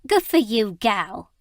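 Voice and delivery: put-on a rough old woman crowing her approval; cackling old woman. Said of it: "cackled a villainous-looking old woman".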